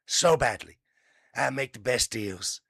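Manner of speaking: a hint of Trump, self-satisfied; lightly put-on boastful tycoon; Trump impression. Mocking the president's deal talk in a mild voice. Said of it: "I know it's a bad impression".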